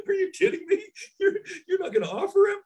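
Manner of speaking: very high, laughing mock-incredulous referee. Referees at camp mocking coaches for not offering, high mock disbelief. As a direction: ham up the stunned refs, squeaky and fast. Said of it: "referees are looking up and being like".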